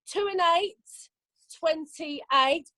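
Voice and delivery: slow sing-song number calling; bingo caller. Acted. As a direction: call each number drawn out.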